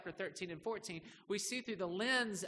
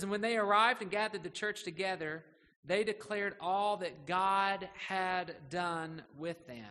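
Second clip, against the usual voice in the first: raised pitch, then slow and weighty; emphatic Scripture reading; 4 dB louder than usual. Real, not acted. Pastor reads verse twenty-seven to the church, emphatic Scripture reading. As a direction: declare the verse, drawing out the second half.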